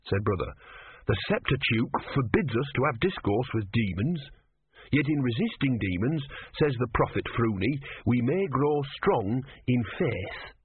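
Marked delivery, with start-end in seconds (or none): 1.1-10.5 put-on worried, sincere young novice; earnest young novice. Brother quoting scripture.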